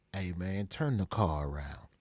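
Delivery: low, soft, casual order; imitation of a rapper. Rapper sending his car to the studio, calm command. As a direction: say it low and unhurried, aside to your driver. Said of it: "he speaks real slow".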